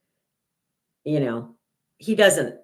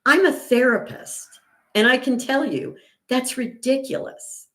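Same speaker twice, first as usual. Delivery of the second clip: retold indignant rebuke; 8 semitones higher than usual. Retold firm rebuke to her son.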